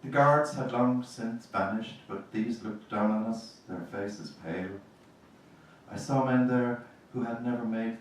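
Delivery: measured reading of a poem to the audience. Acted. Reading his Kilmainham poem aloud to the audience, measured reading. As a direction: read each image with space around it, letting lines drop away.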